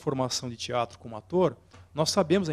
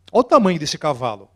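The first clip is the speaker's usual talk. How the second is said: louder, bursting with wonder; big showy exclamation; 9 dB louder, faster than usual. Shown as a demonstration. Lecturer showing a huge horse, loud excited exclaim. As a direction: sell the size of the horse with your voice. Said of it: "Eu tô mostrando com as mãos".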